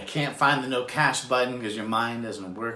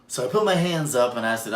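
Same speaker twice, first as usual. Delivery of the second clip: normal talking voice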